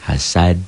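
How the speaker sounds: "Hasad" with a bounced final d; qalqalah kubro. Shown as a demonstration. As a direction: stop on "Hasad" with a short echo after the d. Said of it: "jika berhenti". ("Hasad" berhenti dengan pantulan)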